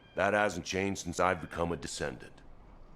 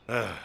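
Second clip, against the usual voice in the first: short frustrated ugh; exasperated grunt; 3 semitones higher than usual. Acted. Annoyed at having so little time.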